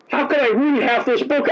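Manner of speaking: high, bewildered question; high-pitched disbelief; mock amazement. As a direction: marvel at your own reading. Imitating reader amazed at time.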